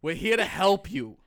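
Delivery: brash doctor hosting an advice segment; intense, bossy mock-doctor patter; Joey. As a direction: pitch the show with forceful confidence. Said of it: "This is, this is".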